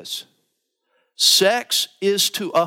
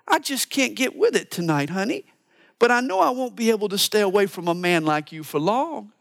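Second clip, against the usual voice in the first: lightly voiced wife, higher, a tender let-down; gentle wife's refusal; 5 semitones higher than usual. Author's example of a wife gently turning down her husband, lightly voiced higher. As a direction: soften the no like a loving wife. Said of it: "One author writes this".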